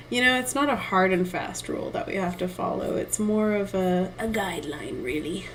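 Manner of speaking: a light, understated pirate voice. Shown as a demonstration. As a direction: slip into a lightly played pirate, mostly her own voice. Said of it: "That was my, uh, pirate voice".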